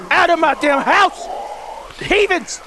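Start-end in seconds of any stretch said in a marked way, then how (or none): 2.0-2.6 hushed, slow whispered swearing; whispered curse. Real, not acted. Gamer hiding from monsters, hissing a whispered curse. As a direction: whisper the curses under his breath.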